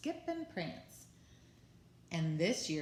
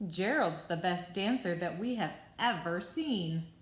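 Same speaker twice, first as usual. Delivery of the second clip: amazed shout; 2 semitones higher, 3 dB louder than usual. Acted. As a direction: shout out in wonder. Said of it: "They shouted".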